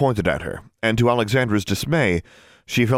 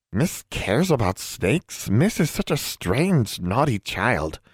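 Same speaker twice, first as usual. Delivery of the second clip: slow scolding elf; 3 semitones higher, slower than usual. Acted.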